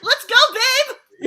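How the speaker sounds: very high, loud and slow "Let's go, babe"; hammed-up rescuer. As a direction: drag it out like a swaggering rescuer. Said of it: "quoting herself".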